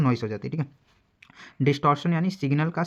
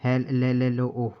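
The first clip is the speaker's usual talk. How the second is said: a hello falling apart on the call; stretched broken hello; much slower than usual. Shown as a demonstration. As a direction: split "हेलो" into halting, repeated pieces. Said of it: "ऐसे कुछ सुनाई देगा".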